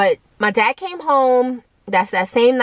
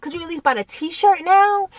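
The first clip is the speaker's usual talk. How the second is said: put-on higher pleading teen voice insisting on the style; whiny kid; 8 semitones higher than usual. Kid arguing with mom about baggy shorts, whiny and high. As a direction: beg mom like a stubborn kid.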